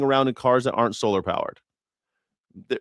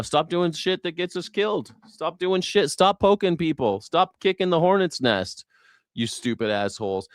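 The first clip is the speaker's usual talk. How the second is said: higher-pitched exasperated scolding; exasperated rant; 6 semitones higher than usual. Acted. Comedian scolding politicians who provoke wars, exasperated and high. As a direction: scold them like fed-up parent.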